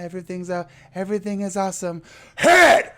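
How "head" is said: high yelped shout of the word; sudden shout. Retold or imitated. Recapping the film's jump scare for viewers, sudden shout. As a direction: blurt it out like the scare just hit.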